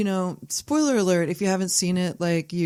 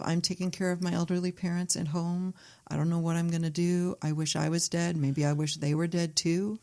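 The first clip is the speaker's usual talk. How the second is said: understated despair; 4 dB quieter than usual. Acted. Woman caring for elderly parents at home, understated despair. Voices the film's weary daughter.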